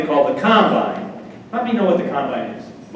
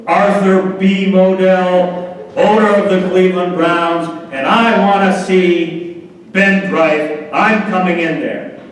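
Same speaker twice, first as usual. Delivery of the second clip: louder, drawn-out pompous announcement of himself; lightly voiced proud owner; 4 semitones higher, 4 dB louder than usual. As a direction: puff up and announce yourself grandly. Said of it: "Art kind of straightens up and goes".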